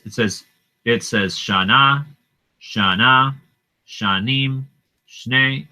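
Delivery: pointing out each repetition; repeated words stressed. Shown as a demonstration. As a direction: list "Shana, Shanim, Shnei" one by one. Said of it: "saying it over and over again".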